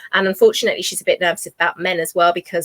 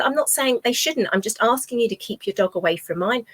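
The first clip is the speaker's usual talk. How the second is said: firm retort; 4 semitones higher than usual. Retold or imitated. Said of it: "I said".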